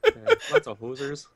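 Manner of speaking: slow hammed-up Canadian drawl; Canadian accent. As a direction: lay on the Canadian accent slowly.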